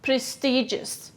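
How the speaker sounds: slow clear prestigious; teacher modelling prestigious; model word. Shown as a demonstration. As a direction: say prestigious. slowly for echo. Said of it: "Repeat after me".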